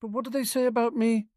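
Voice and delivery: high, quick, insistent question; pressing. A narrator's reading. Harry prodding Tonks for gossip, pressing. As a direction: press eagerly for an answer. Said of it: "Harry pressed".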